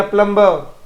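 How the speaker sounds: प्लम्बर said without the b, plumer; silent b. Shown as a demonstration. Teacher models प्लम्बर for pupils with a silent b. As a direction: drop the b in प्लम्बर. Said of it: "इसमें बी नहीं बोला जाएगा".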